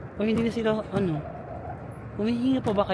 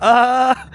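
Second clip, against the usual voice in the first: high, loud scream; lone scream; 7 semitones higher, 8 dB louder than usual. Real, not acted. Vlogger screaming alone for silent riders, loud scream. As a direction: scream to rouse the others. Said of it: "Bakit ako lang yung naano?".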